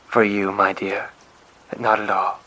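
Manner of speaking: adoring coo; cooing softly. Acted. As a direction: purr it out lovingly. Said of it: "she cooed softly".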